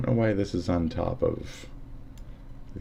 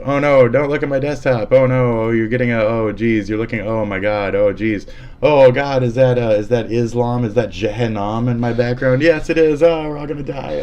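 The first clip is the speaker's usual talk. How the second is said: hammed-up alarm, louder and higher; mock panic; 4 semitones higher, 6 dB louder than usual. Streamer mock-panicking as viewers see his desktop. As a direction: pretend to be caught out and panic.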